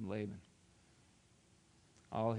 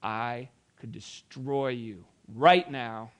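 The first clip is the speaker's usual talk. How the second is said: threat; 5 dB louder, much slower than usual. Acted. Laban threatening Jacob.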